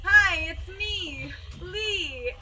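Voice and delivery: slightly sing-song phone greeting, imitated; lightly exaggerated imitation of a friend; Lee. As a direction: mimic a coworker answering, slow and a bit high. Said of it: "I just hear him say".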